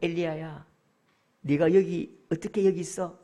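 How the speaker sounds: low, tender questioning; God asking gently; gentle concern. Acted. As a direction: ask like a worried, kindly father. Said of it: "물을 때예요".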